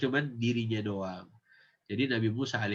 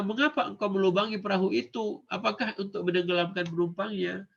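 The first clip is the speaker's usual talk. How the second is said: polite question; 5 semitones higher than usual. Acted. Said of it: "Jadi Nabi Musa nggak bilang".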